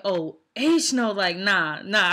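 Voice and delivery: loud, drawn-out mock outrage; emphatic refusal. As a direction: act out a friend flatly refusing, loudly. Friend's shocked refusal, retold.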